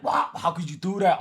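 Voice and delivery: a touch of mock shock; understated pretend gasp of outrage; fake outrage. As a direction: play at being offended, lightly. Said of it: "I was acting outraged".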